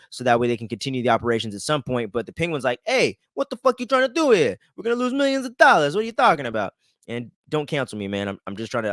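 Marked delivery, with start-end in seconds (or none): 2.9-6.7 high, strange gangster Penguin voice. Retold or imitated. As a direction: squawk it out like the Penguin. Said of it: "I'm just trying to do the Penguin voice".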